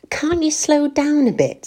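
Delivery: anxious whisper, pitched high. A narrator's reading. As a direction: whispers her worry, tense and breathless.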